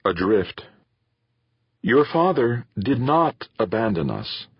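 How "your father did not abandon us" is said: a firm, steady denial; mother setting her son straight, firmly. A narrator's reading. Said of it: "Pauline Zacharias said firmly".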